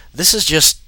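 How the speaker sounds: high, loud cry of disbelief; exasperated outburst. Real, not acted. Reader cracks at the story, loud and exasperated. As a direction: explode in exasperation.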